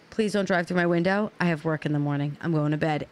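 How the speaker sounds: low, even, unbothered reply; calm retort, imitated. His calm reply to her screaming.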